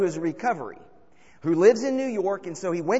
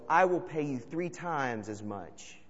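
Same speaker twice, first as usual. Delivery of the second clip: mild yell; 4 dB louder, slower than usual. Acted. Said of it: "And Akiba yells".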